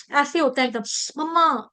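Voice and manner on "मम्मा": mock pained cry. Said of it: "ऐसे करते हैं ना हम लोग".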